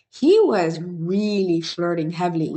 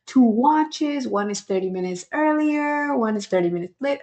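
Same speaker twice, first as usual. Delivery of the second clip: lightly higher, sweet imitation of Dania; cute imitation; 6 semitones higher than usual. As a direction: play her as cute and earnest. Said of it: "she is so cute and adorable".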